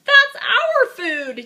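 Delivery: yelling. Acted. Dinosaur yelling at the greedy one over food, loud and high. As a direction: shout it in outrage. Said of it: "yelled Apatosaur".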